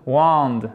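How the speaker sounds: WAND with a long open vowel; voyelle longue. Shown as a demonstration. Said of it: "voyelle longue". («wand» avec une voyelle longue)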